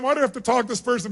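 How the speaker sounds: fast, grumbling aside; fed-up inner grumble; annoyed mutter. Shown as a demonstration. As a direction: mutter it like it's beneath you. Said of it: "really think it's a waste of your time".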